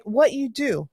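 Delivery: normal talking voice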